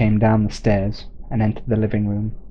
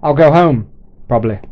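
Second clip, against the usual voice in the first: loud, higher call back; shouted back; 4 semitones higher, 8 dB louder than usual. Acted. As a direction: throw the answer back across the street. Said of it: "shouted back".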